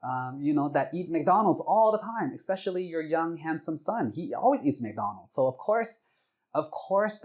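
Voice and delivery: high-pitched exasperated scolding; yelled. Retold or imitated. Wife scolding her friend over Big Macs, yelling. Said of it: "she yelled at my mom".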